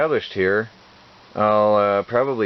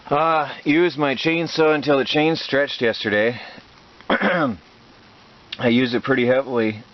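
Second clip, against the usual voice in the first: talking with a bug in the throat; 2 semitones higher, slower than usual. Real, not acted. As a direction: push through a throat irritation. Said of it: "just swallowed a bug".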